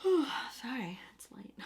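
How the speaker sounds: sleepy whisper through a yawn. Real, not acted. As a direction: talk mid-yawn. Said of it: "you keep yawning".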